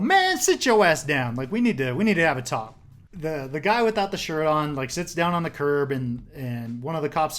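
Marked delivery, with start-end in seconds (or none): 0.0-2.8 a touch of a barking cop; stern order. Retold or imitated. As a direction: order him down to the curb. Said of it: "He's like".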